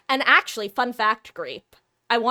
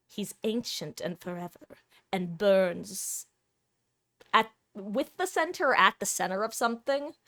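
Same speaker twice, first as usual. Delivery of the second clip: dramatic monologue; 4 dB quieter than usual. Acted. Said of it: "monologue from Doctor Who".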